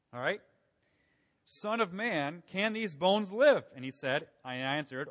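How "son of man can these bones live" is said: booming voice of God. Acted. God's voice read from Ezekiel.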